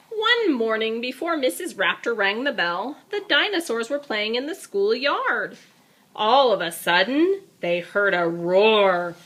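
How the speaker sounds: lively storybook narration; reading to a child. A narrator's reading. Parent reading a picture book aloud to a child, lively. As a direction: read it like bedtime storytime.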